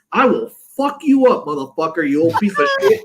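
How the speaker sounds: mock-aggressive tirade; retold angry threat. Girlfriend threatens the man, retold.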